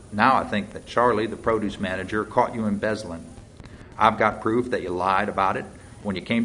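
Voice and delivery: lightly voiced deputy pressing a suspect; a hint of a folksy, accusing lawman. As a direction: lay out the charges with mild force.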